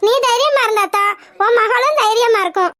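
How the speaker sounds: teary comforting plea; tearful pleading. Acted. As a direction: speak through tears. Friend consoling while crying.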